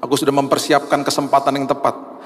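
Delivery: gentle voice of God. Retold or imitated. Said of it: "Tuhan juga tegur saya".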